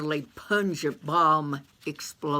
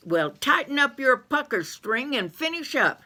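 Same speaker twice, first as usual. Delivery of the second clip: Bessie May's voice; 8 semitones higher than usual. Acted. Bessie May.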